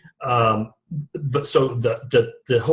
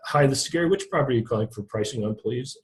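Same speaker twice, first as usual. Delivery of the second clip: toned-down customer service; 4 dB quieter, faster than usual. Shown as a demonstration. Agent showing a calm customer service phone greeting, toned down. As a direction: answer like a calm helpful clerk. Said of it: "tone it way, way down in a customer service sort of tonality".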